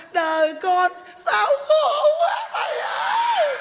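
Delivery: the monk outdoes the woman's wail, mocking; shrieking mock wail. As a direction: stretch it into an over-the-top falsetto wail. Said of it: "bà làm thấy ghê lắm kìa".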